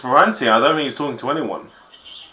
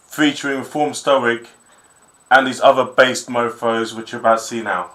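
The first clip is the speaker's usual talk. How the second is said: measured host intro to an exclusive video; show announcer. Real, not acted. Host introducing a music video to viewers, announcer style.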